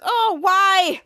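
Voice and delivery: loud, high mock wail; hammed-up protest; acted lament. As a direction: cry it out in put-on dismay.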